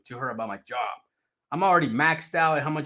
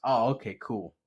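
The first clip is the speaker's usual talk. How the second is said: nervous cools; 5 semitones lower, 7 dB quieter than usual. Retold or imitated. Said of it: "That's all I would always say".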